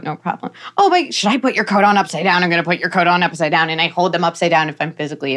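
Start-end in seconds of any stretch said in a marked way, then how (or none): 0.8-3.7 playful teasing. Shown as a demonstration. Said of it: "they're laughing and they put on their coat".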